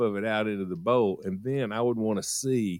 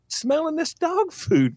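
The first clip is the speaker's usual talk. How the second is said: high, slow mock kid reply; child's caught-out answer; 4 dB louder, slower than usual. Gagging kid explains to mama, strained. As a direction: confess in a pitched-up, drawn-out voice.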